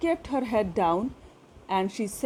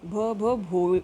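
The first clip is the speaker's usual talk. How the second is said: halting stammer on the name; much slower than usual. Acted. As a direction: trip over the first sound, भ, भ, भो. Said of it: "she began to stammer". (हकलाते हुए नाम बोलना)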